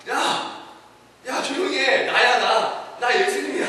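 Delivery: calling out. Acted. Jesus calming panicked disciples.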